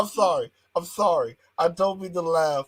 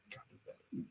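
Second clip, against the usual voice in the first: mock backstage voice; 6 semitones lower, 10 dB quieter, much faster than usual. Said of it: "somebody gotta be back there telling".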